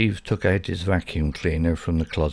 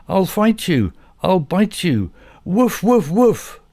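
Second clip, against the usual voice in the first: high, loud excited dog yapping at the vacuum; 11 semitones higher, 4 dB louder than usual. A narrator's reading. Dog Bobby yells at the vacuum cleaner, high and loud. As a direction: bark it out like a scared little dog.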